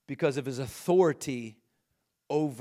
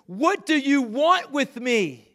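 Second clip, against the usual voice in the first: high, loud, slow demonic cry; demon's shout; 10 semitones higher, 7 dB louder, slower than usual. A narrator's reading. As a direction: bellow it like a cornered spirit. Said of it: "he shouted at the top of his voice".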